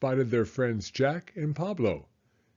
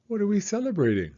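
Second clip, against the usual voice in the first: put-on curious girl; 8 semitones higher, faster than usual. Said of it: "Emily Elizabeth asked".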